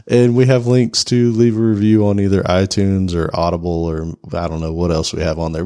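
a pollen-roughened late night DJ voice. Real, not acted. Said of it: "I naturally have the late night D J voice right now because of pollen".

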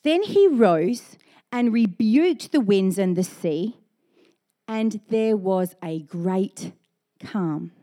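slow, weighty Bible reading; scripture reading. Acted. Pastor finishes the Matthew passage, slow and grave. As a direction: read it out with gravity.

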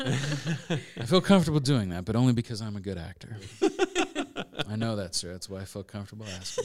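laughing through the quote; laughing retelling. Retold or imitated. Retelling the Sting exchange, laughing through it. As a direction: giggle as you retell. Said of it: "An actor".

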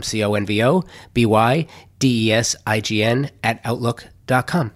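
measured, scripted sponsor-style read; steady self-promotional announcement; podcast promo read. Acted. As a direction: read out your company promo with clear, even phrasing. Reads promo for own production company.

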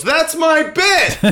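high squeaky indignant cry; Steve Martin voice. Retold or imitated. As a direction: squeal it out, slow and offended. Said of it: "Steve Martin gets up and goes".

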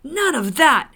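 loud, high angry outburst; shouted. A narrator's reading. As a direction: shout it as an outraged dwarf. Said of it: "he shouted".

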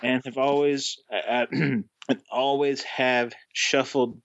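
halting, badly faked Boston accent; shaky attempt at Boston accent. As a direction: read the letter in a struggling Boston accent. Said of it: "I can't do this".

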